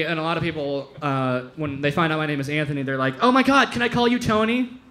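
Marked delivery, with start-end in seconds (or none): 3.2-4.8 higher, mock-delighted question; eager request. People learning his name is Anthony, imitated eagerness. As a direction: ask as if thrilled by the idea.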